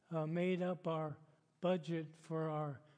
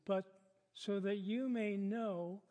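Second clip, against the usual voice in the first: measured Bible reading in phrases; deliberate pulpit reading; scripture reading. Acted. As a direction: read the passage aloud to a congregation, pausing between phrases. Reads the passage aloud.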